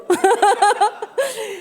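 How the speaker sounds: a high, bright burst of laughter. Real, not acted. Preacher laughing after her words turn harsh, amused. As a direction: laugh it off, a bit embarrassed.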